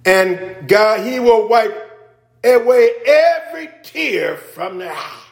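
a hint of a gospel singer's song phrasing; the singer's delivery. Preacher imitating the gospel singer's line, light mimic. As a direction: lean into "God" and "will" like the song's lead. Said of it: "That's how Brian, Brooke would say it"

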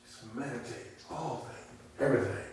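soft near-whisper, letting the words settle; hushed meditation. Shown as a demonstration. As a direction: breathe it out for the flock to ponder. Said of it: "pause and calmly think about it".

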